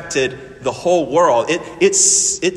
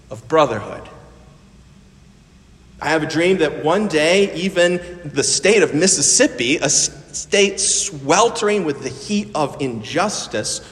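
preaching like Martin Luther King; 3 semitones higher than usual. Retold or imitated. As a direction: build it like a great civil rights speech. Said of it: "and he said".

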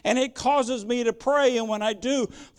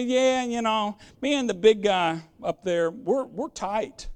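mock nonchalance. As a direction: imitate someone too chummy, tossed off lightly. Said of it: "We don't come in nonchalantly".

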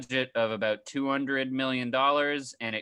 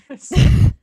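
laughing; 9 semitones higher, 14 dB louder than usual. Real, not acted. Laughing admission.

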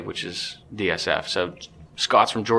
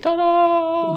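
ta-da; 4 dB louder than usual. Pretend. Triumphant reveal of good luck.

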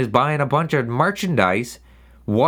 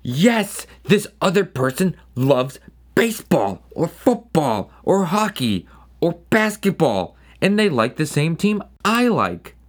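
mock fan glee; 3 semitones higher than usual. They orgasm and they're like.

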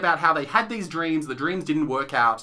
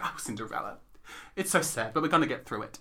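mock consoling; 5 semitones lower, 8 dB quieter than usual. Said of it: "she's, like, consoling Cinderella".

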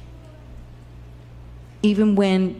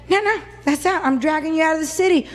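rough mob; 7 semitones higher, faster than usual. Acted. Mob dragging Stephen out.

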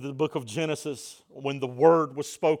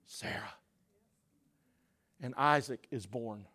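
hushed reveal; 4 semitones lower, 8 dB quieter than usual. Real, not acted. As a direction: drop to a whisper for the reveal. Hushed punch line after loud build.

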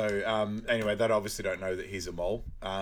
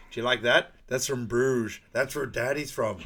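doting father; 4 dB louder than usual. Retold or imitated. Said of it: "He's like".

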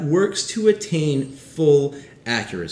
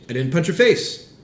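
louder take with "face" lifted on a rising tune; stress on FACE; 2 semitones higher, 4 dB louder than usual. Shown as a demonstration. Pastor demonstrating a stress on face, rising. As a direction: push "face" up at the end, louder. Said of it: "all with different meanings based on the way I say it".

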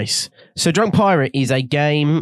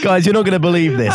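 laughing while talking; 4 semitones higher, 3 dB louder, faster than usual. Real, not acted.

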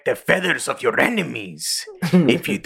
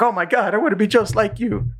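much higher, gushing fangirl voice; starstruck fan; 11 semitones higher than usual. Retold or imitated. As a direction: squeal it like meeting your idol. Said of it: "He's like".

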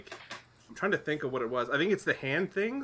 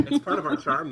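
laughing; 5 semitones higher, 5 dB louder than usual. Real, not acted. Laughing aside.

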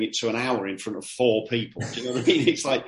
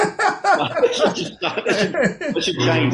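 words bubbling through real laughter, much higher and louder; laughing while talking; 12 semitones higher, 5 dB louder, much slower than usual. Real, not acted. Laughing at own poster joke.

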